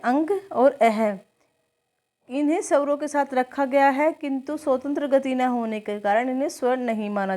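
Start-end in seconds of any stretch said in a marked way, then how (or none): 0.0-1.2 slow. Shown as a demonstration. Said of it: "आयोग वाह की संख्या किसे दी जाती है".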